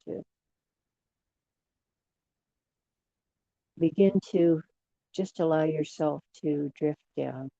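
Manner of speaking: unhurried meditation voice with long pauses; guided relaxation. Real, not acted. Leader guiding a group to relax and drift down, unhurried meditation voice. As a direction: ease listeners down gently, phrase by phrase.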